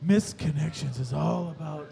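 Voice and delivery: slow sultry narrator voice; low, slow seductive read; sexy voice. Pretend. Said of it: "Do it in your sexy voice".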